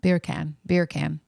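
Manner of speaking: "Beer can" run together to pass for Jamaican "bacon"; mock Jamaican accent. Shown as a demonstration. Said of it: "in a Jamaican accent".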